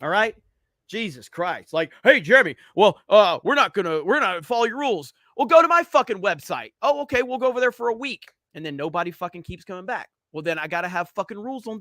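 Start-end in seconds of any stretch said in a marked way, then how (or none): 2.0-5.1 louder, sneering impression of defiant chatters; mocking chat users. Streamer mocking his chat for refusing the rules, sneering imitation. 6.8-8.3 higher, quick sneering mock agreement; mocking chat users. Streamer mocking chatters who leave for a week, quick sneer.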